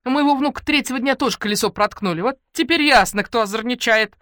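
high, loud chattering granny; old lady agreeing loudly in the crowd; feisty old woman. Acted. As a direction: rattle it off like a nosy neighbour. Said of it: "бойкая старушка согласилась".

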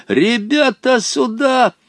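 very high rallying call; fierce shout. A narrator's reading. Boy calling neighbour boys over, shouting fiercely. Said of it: "закричал он вдруг свирепо".

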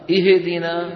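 اهدنا as "ihe-dina", extra vowel after h; wrongly bounced haa. Shown as a demonstration. Teacher shows what they do to the haa, bounced. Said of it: "يجعلها تهتز".

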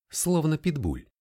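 plain reading voice

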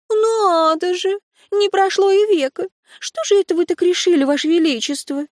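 высоко, медленно, язвительно; уколоть короля насмешкой; колкая насмешка. A narrator's reading. Насмешливая Лури отвечает королю. (язвительная насмешка)

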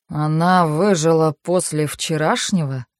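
slow, mildly surprised question. Acted. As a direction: sound faintly surprised. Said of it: "с удивлёнными интонациями".

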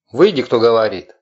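loud, nasal inhuman call; an unearthly voice demands, inhaled words; eldritch horror. Acted. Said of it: "странный голос раздался снова". (громкий гнусавый нечеловеческий голос)

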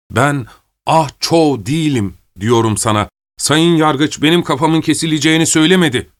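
lightly voiced prisoner, insisting on who he is; mildly acted earnest protest. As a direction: plead the mistake, pitch lifting as you go.

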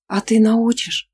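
с надеждой; hopeful question. Acted. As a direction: ask it hoping for a yes. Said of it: "с надеждой спросила она".

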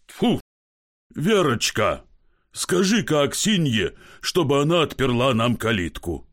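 put-on a drunk man pleading at night; drunk husband calling.

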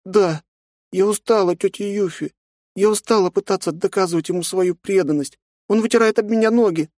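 put-on high girl's voice, hurt complaint; a little girl pouring out her hurt; hurt young girl. A narrator's reading. Nastya complains to aunt about father.

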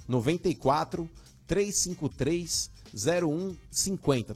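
digits repeated slowly; slow dictation. Shown as a demonstration. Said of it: "interagir conosco aí pelo WhatsApp".

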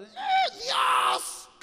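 sudden high scream to God; shocked shout before a car crash; panicked cry. Retold or imitated. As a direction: yelp like you're about to crash. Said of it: "cuando están por chocar en el auto".

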